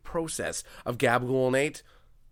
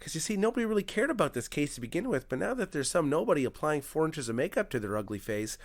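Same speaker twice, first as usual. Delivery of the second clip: soft tutorial voice; 6 dB quieter than usual. Pretend. Makeup vlogger narrating a murder case, softly.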